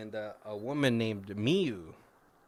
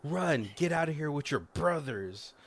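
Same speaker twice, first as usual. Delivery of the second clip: retold urgent cry, higher pitch; urgent call; 4 semitones higher than usual. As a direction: mildly act out urging someone to flee. Ghost urging children to flee.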